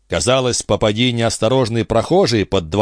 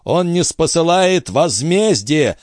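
put-on pleading old father; 4 semitones higher than usual. Fallen father calls on God.

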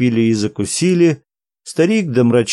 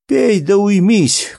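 higher, slow, moderately raised cry; calling out; 7 semitones higher than usual. A narrator's reading. Naum tells the singing monk to drink and settle down, crying out. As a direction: call out an impatient order. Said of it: "крикнул Наум".

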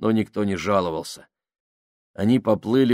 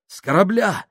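high, louder excited cry; amazed gasp; 10 semitones higher, 5 dB louder than usual. A narrator's reading. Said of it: "ахнул Минхаус". (изумлённый возглас)

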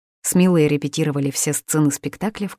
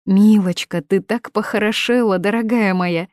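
delighted; 5 semitones higher, 4 dB louder than usual. Acted. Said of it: "Лидия была в восторге".

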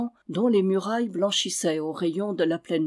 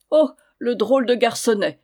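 put-on louder, laughing at the boy; amused exclamation; 3 semitones higher, 6 dB louder than usual. Knight exclaims with amusement at the boy. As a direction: exclaim with delight. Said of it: "s'écria-t-il".

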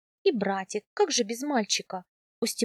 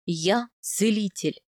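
slow, measured husband's declaration; composed, deliberate male character; calm; slower than usual. A narrator's reading. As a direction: state it calmly, with weight. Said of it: "спокойно сказал он".

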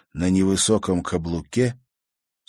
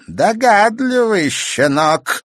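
much higher, slow, mocking witch voice; sneering crone; 14 semitones higher, 7 dB louder, much slower than usual. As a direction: sneer like a wicked old crone. Villain grins and sneers.

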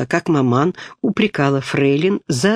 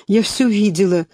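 bold blurt, a touch higher; boldly; 5 semitones higher than usual. A narrator's reading. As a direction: blurt it out bravely. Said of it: "смело вырвалось у Бельской".

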